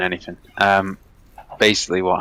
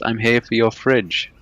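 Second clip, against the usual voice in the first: put-on slow, lightly done Polish accent; imitated Polish accent; slower than usual. Retelling the Polish man on the grass, light mock Polish accent. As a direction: repeat it slowly as the Polish stranger. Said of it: "Very Polish".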